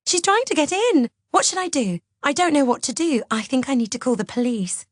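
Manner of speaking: high, frantic wailing; high-pitched panic easing slightly; feigned panic. A narrator's reading. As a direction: act terrified down the phone. Feigned panic on phone, locked in.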